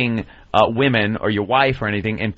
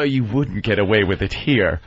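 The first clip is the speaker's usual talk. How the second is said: lightly voiced announcer, lower and slow; imitated PSA voiceover; 5 semitones lower, slower than usual. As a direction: deliver it like a solemn PSA tagline. Imitating the PSA's closing voiceover.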